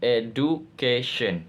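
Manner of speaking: "education" syllable by syllable, stress on CA; stress before -ion. Shown as a demonstration. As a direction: spell out "education" in beats, weight on CA. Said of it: "Stress pattern".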